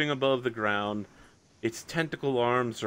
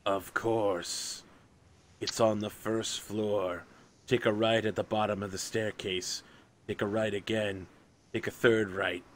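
understated, unhurried otherworldly helper; obliging creature; 4 dB quieter than usual. Acted. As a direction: give directions softly, lightly in character. Game master answers as the creature.

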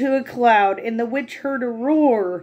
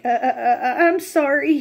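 sputtering; 3 semitones higher, faster than usual. Acted. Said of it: "he sputtered".

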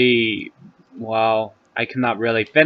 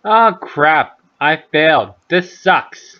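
higher, louder frustration; frustrated outburst; 4 semitones higher, 4 dB louder than usual. Real, not acted. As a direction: groan at failing. Failing the challenge.

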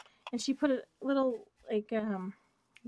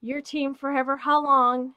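higher, louder rush of joy; excited; 5 semitones higher, 8 dB louder than usual. Real, not acted. Thanking friend Esme for the gifts, excited. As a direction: let the gratitude spill over. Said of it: "you can hear my excitement".

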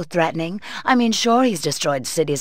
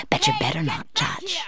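threatening shout; 11 semitones higher than usual. Acted. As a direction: warn the little alien off with a shout. Threatening a watching alien.

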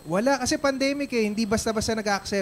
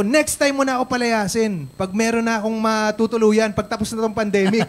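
louder, mock angry comeback; talking back to the wife, louder and mock angry; retold angry retort; 3 semitones higher, 6 dB louder than usual. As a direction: fire back at the wife, half acted. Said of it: "galit na galit ako".

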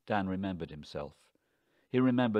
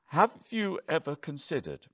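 raised, pointed challenge; higher-pitched, heated challenge; pointed anger; 7 semitones higher, 4 dB louder than usual. A narrator's reading. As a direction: round on your wife with a pointed question. Husband rounds on wife.

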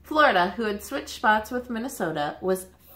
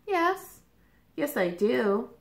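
excited; 4 semitones higher, slower than usual. Acted. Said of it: "Nebraska said excitedly".

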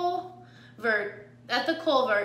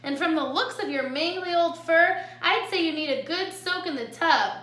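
high, louder sassy armadillo voice; sassy middle sister; 7 semitones higher, 5 dB louder than usual. A narrator's reading. Jilly tells off the mangy coyote, high and sassy. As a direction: scold up high with sass.

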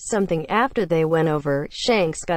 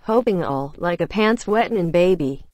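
ordinary delivery, nothing marked

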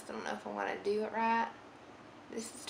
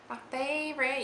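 playful Southern twang on "favorite", higher; put-on Southern accent, raised pitch; 6 semitones higher than usual. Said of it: "slip into a southern accent".

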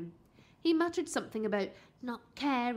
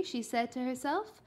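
usual speaking voice

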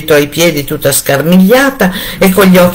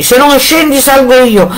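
threatening shout; 9 semitones higher than usual. A narrator's reading. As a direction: hammer the threat home. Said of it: "e urlava".

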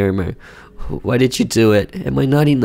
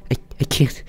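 higher-voiced wife, shaken but firm; upset wife; 5 semitones higher than usual. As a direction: tell him he's sick, near tears.

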